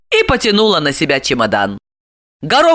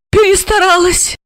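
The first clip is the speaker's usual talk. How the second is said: higher, quick self-reproach; rueful thought; 13 semitones higher than usual. A narrator's reading. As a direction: realize you overdid it. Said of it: "подумала Ася". (с досадой про себя)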